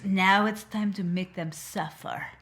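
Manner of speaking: slow, gloating menace; mock villain. Cohost voices the heroine plotting to make them suffer. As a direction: savour the revenge plan.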